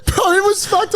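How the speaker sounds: high, laughter-choked telling; cracking up. Real, not acted. Telling friend about the smelly dinner, cracking up. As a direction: squeeze the words out through real laughter. Cracking up at his own story.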